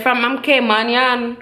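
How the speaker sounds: slow mock Caymanian accent; playful take on a Caymanian man's accent; imitated Caymanian accent. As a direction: stretch it out in an imitated Caymanian lilt. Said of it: "that man accent".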